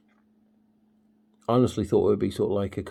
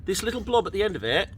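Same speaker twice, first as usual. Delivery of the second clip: put-on talking to a child; 9 semitones higher than usual. Showing a pumpkin flower to child.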